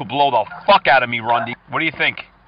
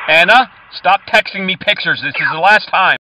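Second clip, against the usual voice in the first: louder stern warning; mock stern; 5 dB louder than usual. Caller warning scammer Anna off, mock stern and louder. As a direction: lay down the final warning.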